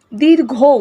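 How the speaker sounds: দীর্ঘৌ with the final vowel held; long vowel. Shown as a demonstration. Teacher repeating a long vowel, দীর্ঘৌ drawn out. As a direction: stretch out the end of দীর্ঘৌ. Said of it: "উচ্চারণ করতে বেশি সময় লাগছে".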